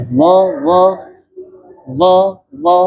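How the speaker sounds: dha sounded out repeatedly; Arabic dha demonstrated; demo of dha. Shown as a demonstration. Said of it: "dha itu dia punya jahar".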